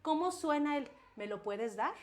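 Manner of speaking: gentle, even ask; calm parent tone; calm request. Shown as a demonstration. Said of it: "mi tono de voz es congruente".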